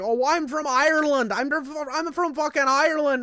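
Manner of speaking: high, loud mock Irish outburst; hammed-up Irish rant; going off. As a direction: imitate an indignant Irishman. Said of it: "dude goes off on me".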